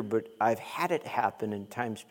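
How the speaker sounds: normal talking voice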